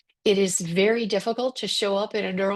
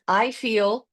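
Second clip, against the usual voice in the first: slow demo phrase. Shown as a demonstration. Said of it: "the phrase is".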